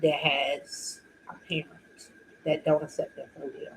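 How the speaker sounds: hushed, fading close to tears; about to cry. Real, not acted. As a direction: let it sink toward a whisper, holding back tears. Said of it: "I'm about to cry".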